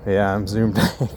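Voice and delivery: chuckling mid-sentence; laughing. Real, not acted. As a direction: laugh through the words. Laughing at own zoom.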